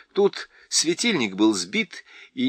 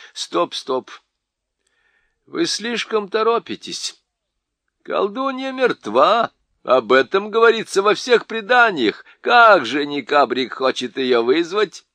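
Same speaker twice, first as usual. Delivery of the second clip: much higher, pleading and urgent; urgent old doctor; 7 semitones higher, 4 dB louder than usual. A narrator's reading. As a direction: press them to stop, alarmed.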